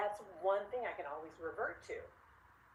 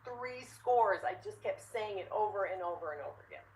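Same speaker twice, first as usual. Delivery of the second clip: put-on excited kid; 4 semitones higher, 4 dB louder than usual. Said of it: "He goes".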